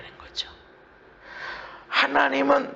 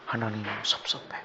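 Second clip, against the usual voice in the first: 아주 작고 낮은 속말; 서운한 마음을 혼잣말처럼 낮게; 속마음 흉내; 13 dB quieter than usual. Acted. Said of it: "마음에". (들릴 듯 말 듯 섭섭해하는 흉내)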